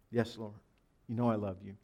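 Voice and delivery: low, soft answer as Peter; subdued reply. Acted. Peter answering Jesus' question about love, subdued. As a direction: answer humbly, dropping pitch and volume.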